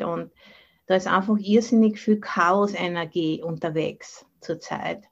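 ordinary delivery

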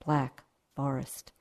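poem reading. Acted. Poem read at start of talk.

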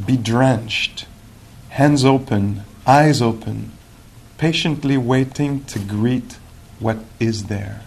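slow, measured poetry recital; unhurried reading of a contemplative poem. Acted. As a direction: let each phrase soak in, with long pauses. Reads a poem aloud.

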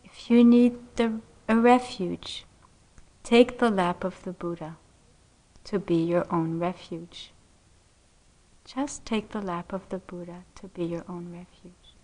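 soft, quietening toward a near murmur; gentle and sweet. Retold or imitated. Teacher consoling a distraught student, gentle and soothing. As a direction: offer it like a gift, tenderly. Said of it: "with the really sweetest voice".

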